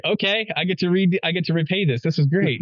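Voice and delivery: high-pitched, mock-delighted eagerness; retold glee. Friend gets to repay the awkward wife phone call, retold glee. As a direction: pitch it up, relishing the chance for payback.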